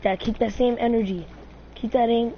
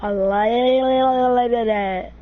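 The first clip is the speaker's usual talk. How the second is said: very slow, louder gloat; gloating drawl; 5 dB louder, much slower than usual. Acted. Gamer gloating over a play, slow drawl. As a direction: savor every word.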